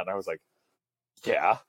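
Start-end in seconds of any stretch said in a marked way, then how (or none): 1.2-1.6 half-mock eager agreement, a bit higher; eager yes. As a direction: playfully act out jumping at the offer. Retold self, eager to volunteer.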